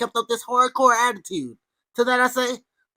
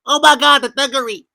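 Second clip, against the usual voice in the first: sarcastic gasp, louder and higher; mock shock; 5 semitones higher, 6 dB louder than usual. Vlogger mocking fans' gangster image, hammed-up mock shock.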